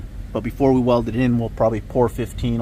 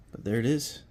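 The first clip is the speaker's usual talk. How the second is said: whispering; 7 dB quieter than usual. Real, not acted. Revealing finished part quietly.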